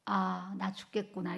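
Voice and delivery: a touch of faint exhausted resignation; weak dying voice. Retold or imitated. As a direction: let the breath run out as if near death. Retells feeling near death.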